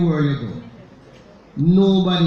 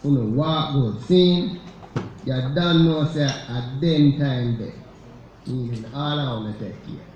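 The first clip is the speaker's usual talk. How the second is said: quoting in Jamaican patois; 4 semitones lower than usual. Retold or imitated. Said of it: "And she closed by saying".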